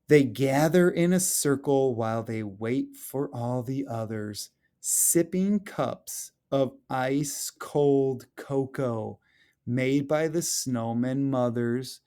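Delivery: lively storybook read-aloud, rising at the end; expressive children's story narration. Acted. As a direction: read it like a picture book to the class. Teacher reads picture book aloud.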